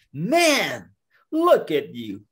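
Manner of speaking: loud, jeering amazement; mocking bear. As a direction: jeer at someone small, punching the first word. Bear mocks the turtle.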